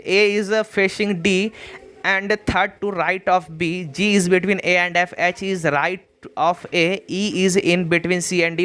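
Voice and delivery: very slow, word by word; slow dictation read. Shown as a demonstration. Teacher reading the puzzle aloud to students, slow and measured. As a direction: read it out deliberately for students to copy. Reads the question out in English.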